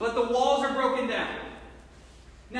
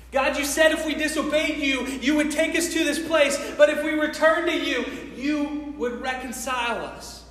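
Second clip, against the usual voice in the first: acted fervent prayer, slightly raised; praying to God; 2 semitones higher than usual. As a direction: remind God earnestly of his promise. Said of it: "He starts to pray to God".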